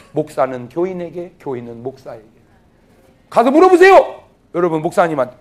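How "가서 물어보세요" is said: high, loud exhortation; loud urging. Real, not acted. 설교자가 회중에게 높고 크게 권함. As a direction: push them to go ask. Preacher urges congregation.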